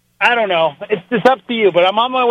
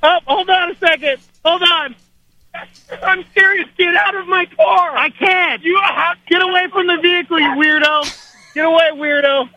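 panicked high yelling while fleeing; being chased; 6 semitones higher than usual. Real, not acted. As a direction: shout in alarm as someone runs at you. Friend chasing him to car.

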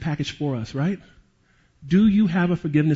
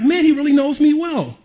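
sarcastic aside; 9 semitones higher, 4 dB louder than usual. Retold or imitated. Sarcastic aside about insults.

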